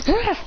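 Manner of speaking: short effort cry; acted exertion noise; throwing grunt. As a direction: grunt as you hurl it. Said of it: "throws it, going".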